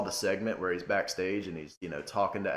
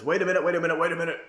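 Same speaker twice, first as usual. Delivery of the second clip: imitating Vince; faster than usual. Vince halting the show, mock announcer call. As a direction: boss halting the show on the mic. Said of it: "Vince comes out and it, and says".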